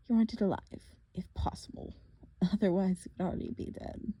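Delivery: a lightly voiced, taunting monster; mock them, a touch sinister; menacing villain. Villain taunting the half-blood at the cliff edge, lightly menacing. Thorne's voice.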